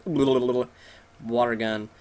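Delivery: drawn-out cartoon attack noise; silly, slow creature attack sound; imitated water-gun attack. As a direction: mimic a water gun, stretched out.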